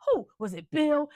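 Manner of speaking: father hearing the news, high outraged disbelief. Retold or imitated. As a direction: shriek it in disbelief. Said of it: "And he's like".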